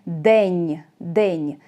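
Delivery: День said low and falling; low falling model of День; pronunciation demo. Shown as a demonstration. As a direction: isolate День to show the де sound. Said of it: "де is more common".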